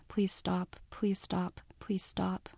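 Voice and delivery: silent repeating plea. A narrator's reading. Frozen girl silently begging her friends to stop, in a fading whisper. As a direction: breathe it out barely audible, dying away. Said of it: "silently repeating".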